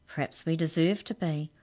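ordinary delivery, nothing marked

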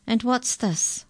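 high-pitched astonished question; increasing astonishment. A narrator's reading. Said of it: "with increasing astonishment".

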